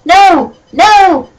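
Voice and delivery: pleading. Acted. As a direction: beg desperately in a high voice. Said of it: "Draco pleaded".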